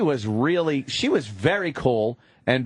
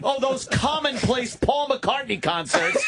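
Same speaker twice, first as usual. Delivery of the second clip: sarcastic; 7 semitones higher, slower than usual. Real, not acted. Sarcastic jab at the cheating story.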